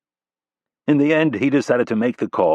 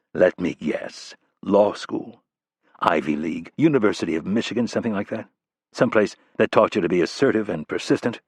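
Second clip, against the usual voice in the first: lower, dry and dismissive; a lightly voiced tough guy brushing someone off; dry tough agent; 3 semitones lower than usual. Rapp brushes off the staffer.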